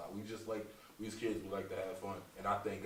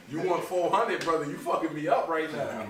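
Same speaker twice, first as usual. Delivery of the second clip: higher, louder, laughing through the words; laughing retort; 8 semitones higher, 11 dB louder than usual. Retold or imitated. Comedian mock-scolding his uncle while laughing. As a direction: laugh it out in disbelief. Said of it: "I'm like".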